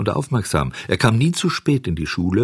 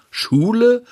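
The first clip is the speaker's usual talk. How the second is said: much higher, louder scornful disbelief; incredulous; 14 semitones higher, 4 dB louder than usual. Acted. Truant boys scoffing at Bengele going to school. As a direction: scoff at the very idea.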